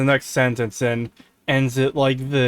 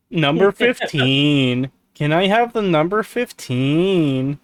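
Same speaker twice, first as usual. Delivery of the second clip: number fifteen guy; slower than usual. Retold or imitated. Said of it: "Talks like the number fifteen guy".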